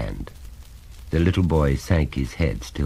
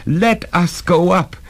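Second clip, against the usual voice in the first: high, emphatic alarm; urgent, frightened realisation; dawning horror; 14 semitones higher, 4 dB louder, slower than usual. Acted. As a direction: say it as dread takes hold. Mother alarmed at the sound.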